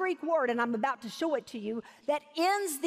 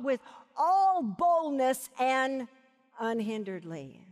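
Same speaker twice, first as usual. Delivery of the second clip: slow, deliberate build, then a drop; emphatic preaching. Real, not acted. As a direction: land the verse phrase by phrase. Preacher drives home the verse.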